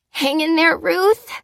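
high, strained encouragement; tight, high, upset voice; croaked plea. A narrator's reading. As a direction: croak encouragement to someone slipping away. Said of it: "croaked Fliss".

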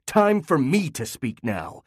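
husband silencing his wife, slowly; slow deliberate. Acted. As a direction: lay down each word. Father takes over the argument.

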